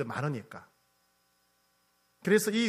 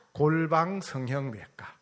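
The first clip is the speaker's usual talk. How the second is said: 골방 성형외과 drawn out slowly, 골방 stressed; slow punchline; slower than usual. Shown as a demonstration. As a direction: land 골방 성형외과 slowly as the reveal. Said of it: "성형외과 하나 소개해 드릴게요".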